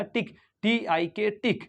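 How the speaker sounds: "टिक" with a short I and a K ending; short I demo. Shown as a demonstration. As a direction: sound out "टिक", spell it, say it whole. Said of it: "यानी कि टिक रहेगा".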